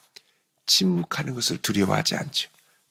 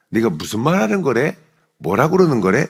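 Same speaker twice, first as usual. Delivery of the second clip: higher, louder brush-off question; feigned ignorance; 4 semitones higher, 6 dB louder than usual. Acted. Peter dodging the servant girl's question, feigned ignorance. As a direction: act as if baffled by the accusation.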